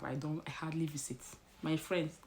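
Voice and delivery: sheepish. Real, not acted. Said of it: "I'm sorry, not be my fault".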